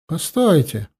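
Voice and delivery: sharp high exclamation; exclaiming. Acted. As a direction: call out to stop him. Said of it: "воскликнула она".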